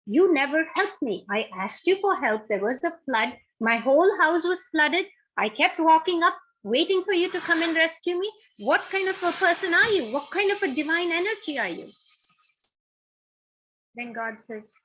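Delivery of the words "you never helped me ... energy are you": angry accusation. Acted. Man angrily accuses God.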